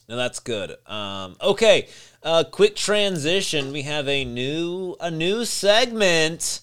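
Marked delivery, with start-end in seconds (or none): 1.4-6.6 excited announcement. Acted. Announcing a new segment.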